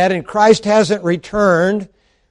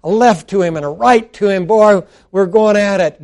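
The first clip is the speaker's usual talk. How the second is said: boxing announcer. Acted. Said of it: "announcer on a boxing match".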